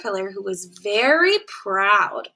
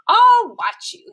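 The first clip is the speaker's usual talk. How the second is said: much higher, louder and slow; eager pollywog; 13 semitones higher, 8 dB louder, slower than usual. A narrator's reading. Pollywog tells caterpillar, high slow eager voice. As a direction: promise to watch, wide-eyed.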